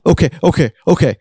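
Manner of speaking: high, panicky agreement; flustered. Acted. New is told to call police, flustered.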